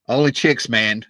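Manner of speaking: imitated big booming voice; a rock singer. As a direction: boom it out like a star giving orders. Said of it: "this big booming voice".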